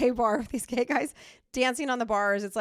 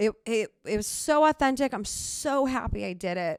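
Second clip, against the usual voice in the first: emotional, choked-up voice. Reflecting on how authentic the show felt, getting emotional. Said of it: "now I'm getting emotional again".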